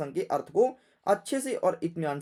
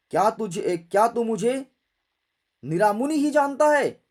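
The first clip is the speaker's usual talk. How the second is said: Parashuram; 4 dB louder, faster than usual. Acted. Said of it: "Parshuram जी अपने फरसे को देख करके बोले".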